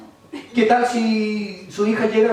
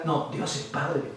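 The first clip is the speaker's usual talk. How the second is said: earnest believer; 2 semitones lower, 5 dB quieter than usual. Retold or imitated. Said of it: "este otro decía".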